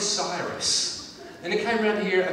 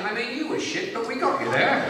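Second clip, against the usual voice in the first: the Queen; 4 semitones higher, 5 dB louder than usual. Acted. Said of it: "Which is basically the Queen saying".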